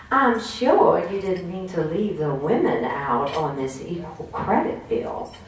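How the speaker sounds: slow, polite Southern accent, lightly voiced; a gentle Southern-lady accent, taken slowly. Lindy reminding colleagues about women, mild Southern accent. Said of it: "with a real southern accent".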